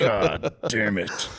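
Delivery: exasperated dad. Pretend.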